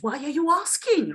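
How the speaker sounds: curious question. Shown as a demonstration. Teacher voicing what a rising yes means, curious question. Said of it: "you're sort of curious".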